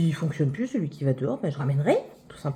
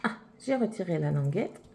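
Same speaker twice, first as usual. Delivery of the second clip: sniffling after crying; 3 semitones lower, 4 dB quieter than usual. Real, not acted. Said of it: "je renifle encore".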